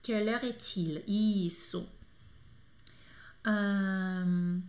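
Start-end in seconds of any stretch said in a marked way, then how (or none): 0.0-1.0 "Quelle heure est-il?" linked, "quelle heure" as one flowing word; teacher demonstrating French; French question. Shown as a demonstration. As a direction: model the French question smoothly. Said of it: "tem que ser o quelle com dois L's".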